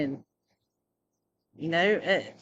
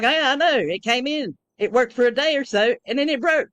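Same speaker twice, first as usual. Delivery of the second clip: retold reply; 6 semitones higher, 5 dB louder than usual. Her own reply, retold.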